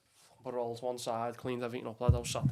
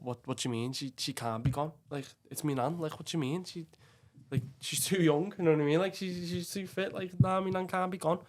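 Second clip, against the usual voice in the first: grieving grandson rising in anguish; distraught disbelief; 6 semitones higher, 3 dB louder than usual. Retold or imitated. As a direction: voice climbing higher in grief. Disbelief at nan's death.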